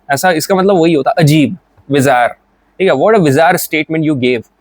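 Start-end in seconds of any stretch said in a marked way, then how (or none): 2.9-4.5 slow, deliberate reading of the example; slow example sentence. Shown as a demonstration. Teacher reading an example sentence slowly to students. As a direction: drag each word out for the students.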